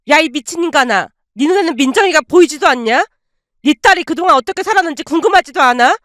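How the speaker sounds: aunt ordering her brother out of the house, raging; furious aunt. Acted. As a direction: scold him like dirt.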